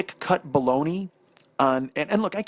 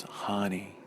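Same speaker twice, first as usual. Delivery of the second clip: low, soft and deadpan; imitated disappointed wife; 7 semitones lower, 9 dB quieter than usual. Wife to husband over the sandwich, hushed and deadpan. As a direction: drop it low and quiet, as a let-down wife. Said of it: "she just goes".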